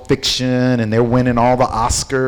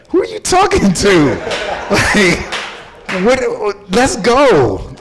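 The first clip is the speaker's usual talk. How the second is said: mock confrontation; 8 semitones higher, slower than usual. Speaker challenging the bosses in his head, mock fight. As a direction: square up to the bosses. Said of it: "I'm like".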